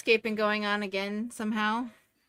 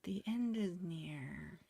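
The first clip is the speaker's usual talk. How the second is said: doomsday street preacher; 4 semitones lower, 12 dB quieter, much slower than usual. Shown as a demonstration. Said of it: "Now make it okay".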